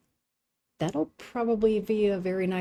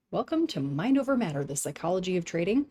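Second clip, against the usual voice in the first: polished announcer welcome, lifted start; smooth flight-attendant greeting; airline stewardess voice. Shown as a demonstration. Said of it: "That's my best ever, like, airline stewardess voice".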